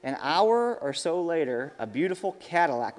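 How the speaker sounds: lively storybook reading with voiced quotes; storyteller voice for kids; reading to children. A narrator's reading. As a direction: read it out to the kids at church.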